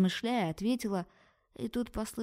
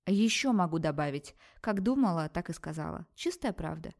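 snapping. Acted. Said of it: "рявкнула ей".

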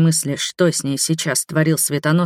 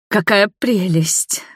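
delighted; 4 semitones higher, slower than usual. A narrator's reading. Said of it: "восхитилась Нева".

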